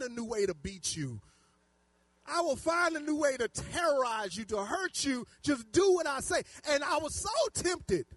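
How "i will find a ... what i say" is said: raised, emphatic mock threat; worked-up parent laying down the law; parent's threat. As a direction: threaten the child, louder and higher.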